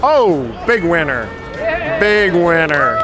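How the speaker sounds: drawn-out, cheering big winner call; excited announcing. Real, not acted. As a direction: announce the winner slowly, celebrating.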